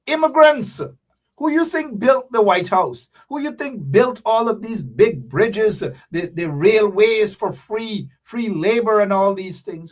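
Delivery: rousing emphasis. Real, not acted. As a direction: hammer each question at the crowd like a preacher. Preaching about immigrants building nation.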